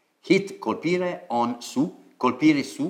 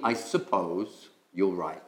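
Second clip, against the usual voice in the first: resigned agreement; 4 semitones lower, 4 dB quieter, slower than usual. Retold or imitated.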